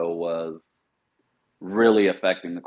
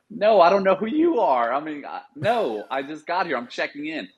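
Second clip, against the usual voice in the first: retold panicked reply, pitched much higher; new sergeant caught off guard by sergeant major, flustered and high; 8 semitones higher than usual. Flustered new guy answering superiors.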